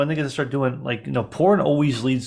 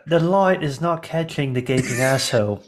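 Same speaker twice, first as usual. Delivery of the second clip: fed-up Australian film director; exasperated Aussie crew boss; Australian accent. Acted. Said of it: "I'm an Australian here".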